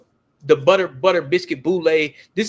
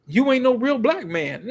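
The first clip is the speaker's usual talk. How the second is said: higher-pitched imitation of an African woman's accent; lightly put-on African accent, dead serious; 6 semitones higher than usual. African woman dismissing two men, imitated dead-serious accent. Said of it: "But she had an accent".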